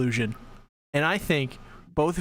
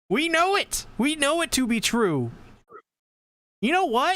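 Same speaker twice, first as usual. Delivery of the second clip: conspiracy rant; 9 semitones higher than usual. Acted.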